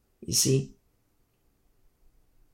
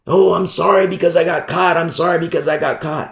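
slightly raised mock-sorry voice; a whining show of regret at being caught; mock apology; 3 semitones higher than usual. Preacher mimics someone sorry for getting caught, mock apology. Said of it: "Now comes the real sorrow".

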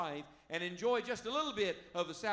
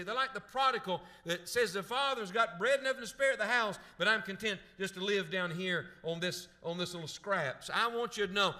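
raised, louder preacher voice with punched key words; impassioned preaching; 3 semitones higher, 5 dB louder than usual. Real, not acted. Preacher urging the church not to live empty, impassioned preaching. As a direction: press the point home with rising force.

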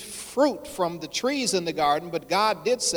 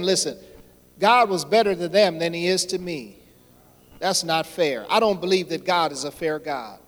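loud preaching; 3 dB louder than usual. Acted. Preacher voices jealous believer.

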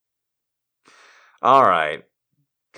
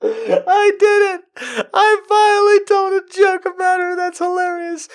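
laughing. Real, not acted. Gleeful over her own joke.

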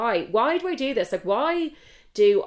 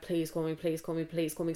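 hushed plea; 6 dB quieter than usual. Retold or imitated. Urgent texted plea retold quietly.

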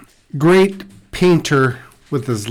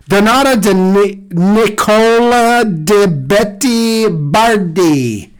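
put-on slow, louder Italian accent; 6 semitones higher, 4 dB louder, slower than usual. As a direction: savor the names in an Italian accent. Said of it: "a certain flow to your Italian accent".

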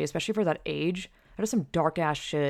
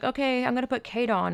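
lightly imitated friend, pitched higher; friend's phone voice; 7 semitones higher than usual. Storyteller imitates friend handing over the phone, higher voice. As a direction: lift it into a higher, put-on voice.

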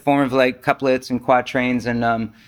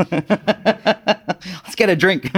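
said through a laugh, slowly; 4 semitones higher, much slower than usual. Real, not acted. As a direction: laugh out a joking invitation. Joking invitation while laughing.

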